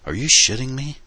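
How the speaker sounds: high incredulous outburst; can't believe what he hears; disbelieving. A narrator's reading. Disbelieving sleepy boyfriend.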